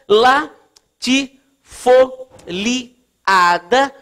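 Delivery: LATIFOLIADA in very slow, separate syllables; sílaba por sílaba. Real, not acted. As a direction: dictate "latifoliada" with a pause after each syllable. Dita o termo enquanto escreve. ("latifoliada" ditado pausadamente, sílaba por sílaba)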